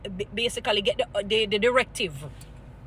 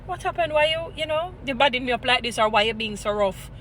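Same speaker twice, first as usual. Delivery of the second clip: gentle respectful plea. Shown as a demonstration. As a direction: coax her kindly instead of snapping back. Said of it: "even my voice have to take time".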